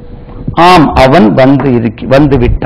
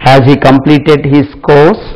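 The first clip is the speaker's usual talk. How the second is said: slow, careful model sentence; slow dictation; much slower than usual. Shown as a demonstration. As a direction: spell it out word by word for the class. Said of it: "teacher dictating".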